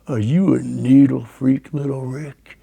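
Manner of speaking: lightly growled menacing question; a hint of a growling biker bully; deep growling voice. Biker with a machete confronting the boys, lightly growling. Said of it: "He had this deep growling voice".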